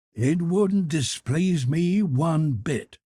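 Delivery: Ned Land eager. Acted. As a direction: savour every word of the promise of a hunt.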